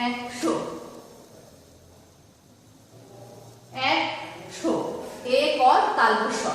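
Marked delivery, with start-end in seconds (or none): 0.1-4.7 একশো said softly, nearly whispered, as eksho; একশো আস্তে উচ্চারণ; soft pronunciation demo. Shown as a demonstration. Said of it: "এটা হচ্ছে বানান".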